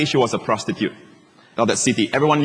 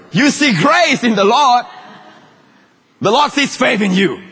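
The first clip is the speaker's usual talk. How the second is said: fervent preaching; 7 semitones higher, 4 dB louder than usual. Acted. Preaches at full force.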